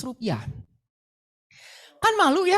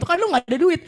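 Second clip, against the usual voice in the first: a touch louder, laughing through the words; mock himself with a laugh; 4 semitones higher, 4 dB louder than usual. Mocking his own poverty on the way to Alfamart, laughing. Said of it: "Ketawa gitu".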